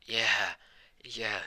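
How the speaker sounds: half-hearted power-up yell; mild mock scream. Deku powering up after the cleanup, mildly imitated scream. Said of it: "kinda scream like".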